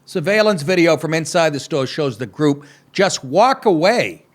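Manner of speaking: mock anchor reading the story; deadpan read of the news copy. Host reading the heist story to listeners, mock news read.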